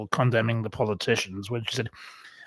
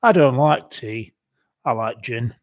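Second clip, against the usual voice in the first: mock old lady; 4 dB louder than usual. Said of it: "and she goes".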